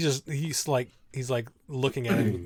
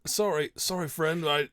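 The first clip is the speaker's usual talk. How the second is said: a higher, louder startled "I don't"; nervous NPC denial; 4 semitones higher, 5 dB louder than usual. Acted. GM voicing the nervous prisoner denying to the players, startled. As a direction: blurt it out, caught off guard. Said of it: "he's like".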